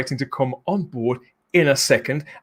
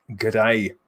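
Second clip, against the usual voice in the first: light mock-Australian greeting; a touch of put-on Australian; Australian accent; 6 semitones lower than usual. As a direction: slip into a jokey Aussie accent. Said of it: "do that in an Australian accent".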